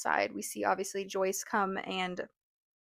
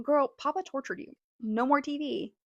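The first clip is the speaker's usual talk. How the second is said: mock scolding; 5 semitones higher than usual. Mock reply to the character.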